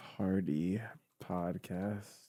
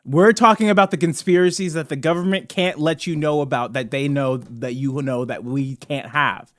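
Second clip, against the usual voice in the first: mock-grave, sinking into a low, softer confidence; confidential conspiracy theorist; 3 semitones lower, 3 dB quieter than usual. Host sharing what government hides, mock-confidential conspiracy theorist. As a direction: let them in on it, slowing toward the end.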